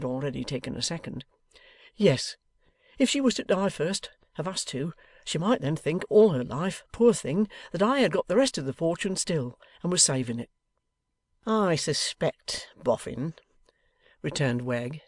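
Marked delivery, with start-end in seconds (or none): 1.9-10.5 put-on high, swooping, despondent old man; meek husband pleading; plaintive Boffin. 11.5-13.3 very slow, insinuating rogue; a touch of a sly schemer; knowing Wegg. Acted. Voices Wegg.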